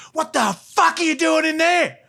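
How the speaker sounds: high-pitched mock demand; imitated angry wife. Wife finds husband on the couch, high imitated fury. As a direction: imitate her harsh scolding. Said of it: "That's how she spoke".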